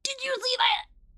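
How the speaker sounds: high, loud, stretched-out disbelief; thrilled, drawn-out exclamation; amazed student. Acted. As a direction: marvel at it in a high, slow voice. Plays Rekid amazed after the ruse works.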